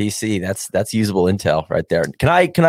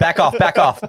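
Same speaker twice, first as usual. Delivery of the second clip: urging the ball; 6 semitones higher than usual. Real, not acted. Calling at a rolling ball.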